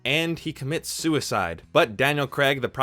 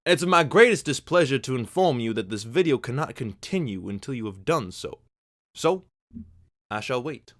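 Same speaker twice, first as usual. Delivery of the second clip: put-on Daniel Craig Southern accent; 5 dB louder than usual. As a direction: put on a theatrical Southern gentleman detective. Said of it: "I have to do an intro with Daniel Craig's voice".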